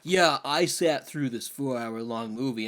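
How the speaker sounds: a touch of slow, proud boasting; lightly mock the smug viewer; smug moviegoer. Mocking a viewer who brags about a long movie, slow and smug. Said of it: "and then sit there".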